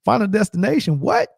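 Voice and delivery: high, fast mock panic climbing to a squeak; hammed-up terror at the desk; rising frantic disbelief, retold; panicked. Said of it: "I'm like".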